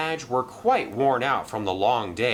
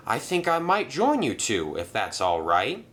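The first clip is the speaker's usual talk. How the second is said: lightly voiced polite engine; 2 semitones higher than usual. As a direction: ask to come along politely. Arthur joins.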